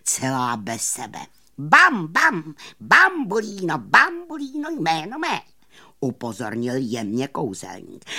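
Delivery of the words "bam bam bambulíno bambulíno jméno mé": high, loud theatrical name announcement; showman magician. Acted. Magician presenting himself to his audience, high and loud. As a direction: proclaim it with a big flourish.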